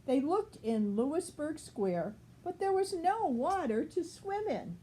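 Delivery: put-on clear, even read-aloud voice for a child; storybook reading. A narrator's reading. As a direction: read it like a bedtime picture book. Reads picture book to child.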